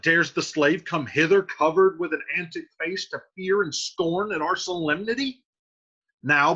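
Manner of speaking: a cousin itching for a fight, read aloud; angry Tybalt. Acted. Teacher acts Tybalt reading Shakespeare.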